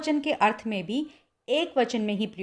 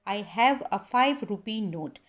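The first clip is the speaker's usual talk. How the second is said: slow correct model; much slower than usual. Shown as a demonstration. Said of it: "आपको बोलना चाहिए".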